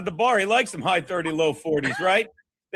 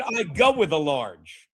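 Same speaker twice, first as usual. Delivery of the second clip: mock repeat; 5 semitones lower, slower than usual. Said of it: "He said you said".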